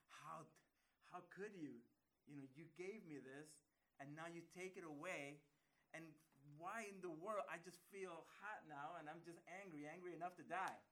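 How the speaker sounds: loud, indignant complaint to God; angry Jonah. Acted.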